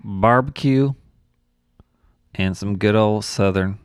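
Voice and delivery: hammed-up Southern accent with pauses. Joining co-host's accent game, playful Southern accent. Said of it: "get behind a Southern accent".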